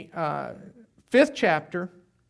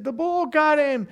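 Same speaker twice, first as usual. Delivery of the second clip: higher, louder fake alarm; retold yell; 9 semitones higher, 5 dB louder than usual. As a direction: cry it out like a panicked prank. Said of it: "we started screaming and yelling".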